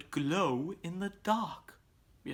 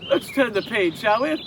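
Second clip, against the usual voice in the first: calling out loudly over the outdoors; big loud kids' host, pushing higher; 5 semitones higher, 7 dB louder than usual. Acted. Kids' show host calls out loudly to boys and girls.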